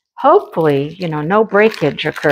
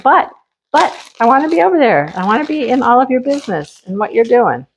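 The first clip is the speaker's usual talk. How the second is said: voicing the cat; 4 semitones higher, faster than usual. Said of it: "He's like".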